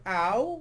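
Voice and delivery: acted little "ow"; retold pained ow. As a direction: react to a sudden shoulder grab. Retold shoulder being grabbed.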